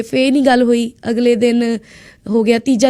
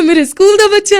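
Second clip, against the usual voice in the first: higher, a bit louder, delighted; thrilled; 7 semitones higher, 4 dB louder than usual. Retold or imitated. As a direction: exclaim it in happy surprise. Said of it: "ਪਰ ਮੈਨੂੰ ਇੰਨਾ ਚਾਅ ਚੜਿਆ". (ਚਾਅ ਨਾਲ ਉੱਚੀ ਆਵਾਜ਼ ਵਿੱਚ)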